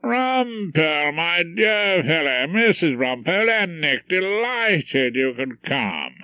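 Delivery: a hint of a gushing host greeting guests; lightly voiced genial host. Featherstone welcomes the Rumpole family, slow and effusive.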